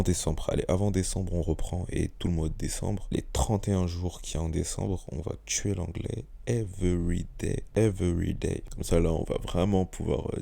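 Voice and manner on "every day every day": every day in a slow English accent. Shown as a demonstration. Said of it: "dire every day avec l'accent".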